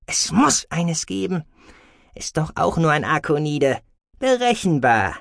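lightly voiced Ilt, musing to himself; murmuring creature. A narrator's reading. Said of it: "murmelte er". (grübelndes Selbstgespräch, leicht verstellt)

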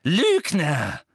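loud, high, falling shout; drawn-out furious accusation; angry accusation. A narrator's reading. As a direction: hurl the word at the culprit. Umbridge accuses Harry.

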